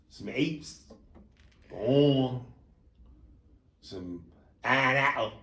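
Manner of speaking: soft, halting "annas" and "apes", first consonants dropped; mock mispronunciation. Host mimicking the man ordering fruit, mangled "annas", "apes". Mocking the man's swallowed fruit names.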